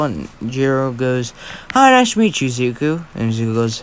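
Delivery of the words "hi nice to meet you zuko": polite greeting. Acted. Jiro forcing a polite greeting.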